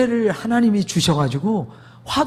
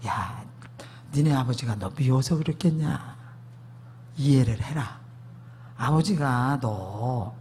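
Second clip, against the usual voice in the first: consoling mother; 5 semitones lower, 6 dB quieter, slower than usual. Retold or imitated. Mother consoles child after scolding.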